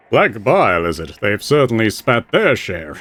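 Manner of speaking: slow, dry mocking voice; wry spirit. Spirit mocks the researcher's diagnosis, slow and dry. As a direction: sneer at the theory. Isilmir voice.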